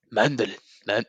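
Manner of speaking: lightly put-on Chinese accent; sounding out the word in a mock Chinese accent. Shown as a demonstration. Joking about the word mandolin, in a mock Chinese accent. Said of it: "as they would say it".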